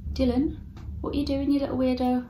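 teaching a parrot. Real, not acted. Talking to pet bird.

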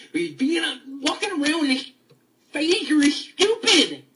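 indignant loud whine; exasperated outburst. Real, not acted. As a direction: drag it out in disgust. Ranting about Star Trek.

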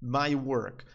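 very slow, clear example sentence; slow demo. Shown as a demonstration. Teacher giving an example to students, very slow. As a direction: lay out each word. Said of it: "Olha só".

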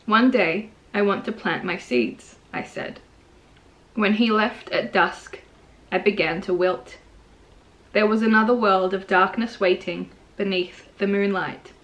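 measured poem reading with long pauses; poetry reading. Real, not acted. Poet reading Seeds to viewers, measured poetry reading. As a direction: read it line by line, letting each one settle. Reads own poem aloud.

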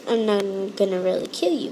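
whispered aside. Real, not acted. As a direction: whisper it, unvoiced. Aside after mock threat.

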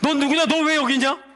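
forceful, rapid-fire confrontation; loud demon challenge. Acted. Demon demanding why someone is in church, loud challenge. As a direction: fire the questions out in full voice. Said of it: "이런 거예요".

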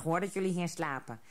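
put-on plain friendly old troll, barely changed; lightly voiced old troll. A narrator's reading. Old troll reassures the hare and rabbit, lightly voiced old troll. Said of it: "De oude trol grinnikte".

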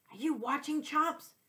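high, teasing jab at the dog; snickering tease. A narrator's reading. Cat teasing the dog in the next cage, snickering. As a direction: needle him with a snicker. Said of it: "I snickered".

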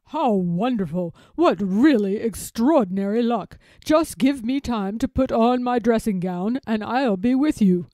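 loud, delighted storybook elephant; excited Babar, calling out loudly; excited cry. A narrator's reading. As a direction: exclaim with big, projected excitement. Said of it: "cries the excited Babar".

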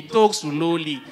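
said slowly. Retold or imitated. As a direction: drag out talk slowly, very slow.

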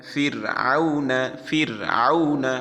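slow demo of ফির with a thin R. Shown as a demonstration. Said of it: "পাতলা হয়ে গেল".

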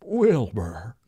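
lightly voiced horse calling Wilbur; a hint of a talking horse; horse impression. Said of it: "That's actually surprisingly good".

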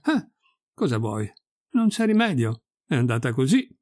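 mildly resigned, playing it casual; feigned nonchalance. Red-faced priest brushing off the loss, feigned nonchalance. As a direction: shrug it off lightly. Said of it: "riuscì ancora a fare il disinvolto".

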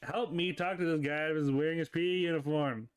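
lightly voiced exasperated buddy; complaining dude character.

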